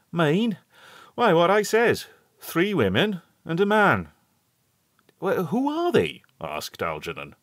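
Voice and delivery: put-on a hearty old countryman calling out; old rustic shepherd. A narrator's reading. Shepherd answers the boys.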